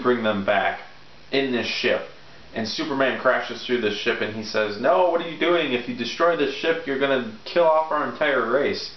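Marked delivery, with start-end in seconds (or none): 4.8-8.9 alarmed protest. Retold or imitated. Voices villain's protest in retold scene.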